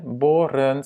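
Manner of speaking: Boren with a long O; long first vowel. Shown as a demonstration. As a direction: hold the O in Boren. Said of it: "la première voyelle est longue". (« Boren » avec un O long)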